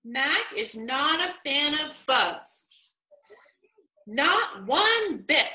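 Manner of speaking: slow, with a clear breath before Not one bit; pause at the comma. Shown as a demonstration. Teacher modeling a comma pause for kids. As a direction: stop at the comma, then finish slowly. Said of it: "So I paused here".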